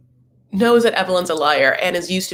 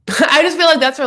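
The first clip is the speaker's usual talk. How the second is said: laughing; 9 semitones higher, 5 dB louder than usual. Real, not acted. Laugh heard on line.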